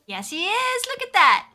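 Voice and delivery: high, loud doting exclamation; gushing admiration. Real, not acted. Player showing off her horse, gushing. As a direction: gush loudly in a high voice.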